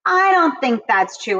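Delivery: mildly incredulous challenge; skeptical. Acted. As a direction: push back as if unconvinced. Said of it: "skeptical basically is like you're questioning".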